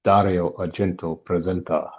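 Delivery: badly faked Italian accent; amateur attempt at an Italian accent. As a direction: read the credit in a clumsy Italian accent. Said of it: "That was a very bad accent".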